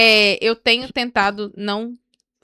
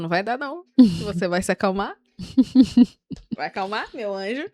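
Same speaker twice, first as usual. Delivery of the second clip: Holy Spirit calming. Retold or imitated. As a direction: lightly voice a patient, soothing counsellor. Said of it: "o Espírito Santo falando".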